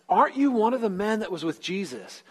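lightly acted challenge, pitched high at the start; questioning accuser. Accuser confronting Peter by the fire, mildly insistent.

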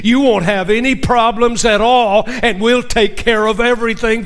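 breathless after a long run; gasping for air between words; out of breath. Real, not acted. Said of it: "I'm out of breath".

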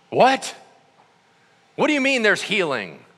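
mock disbelief. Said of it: "people are blown away".

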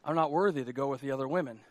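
low, soft, understated hurt; inferior, unworthy woman. Acted. Woman at the well avoiding others, quietly dejected. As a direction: think it aloud, quietly defeated. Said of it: "And so she thought".

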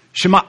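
"Shema" with the throat shut at the end; glottal stop ending. Shown as a demonstration. Preacher teaching the Hebrew: "Shema" with a throat-stopped end. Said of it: "Just close your throat right there".

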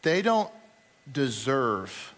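falling low and soft into a sneer; judgmental sneer. Acted. Our judgmental spirit condemning others, low quiet sneer. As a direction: let it sink, quiet and judging. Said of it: "judgmental spirit inside of us that says".

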